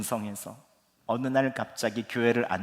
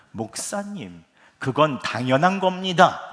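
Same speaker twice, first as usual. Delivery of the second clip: firm, certain and a bit louder at the end; confident voice; 3 semitones higher, 5 dB louder than usual. Retold or imitated. Pastor assuring a worried fellow pastor, confident. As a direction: state it as settled fact. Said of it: "확신에 찬 목소리로".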